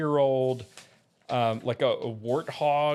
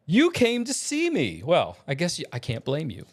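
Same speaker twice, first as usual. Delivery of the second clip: Summoner James; 3 semitones higher than usual. Acted.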